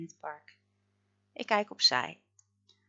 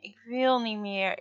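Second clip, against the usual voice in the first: crying; 3 semitones higher than usual. A narrator's reading. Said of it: "begint Freek te huilen".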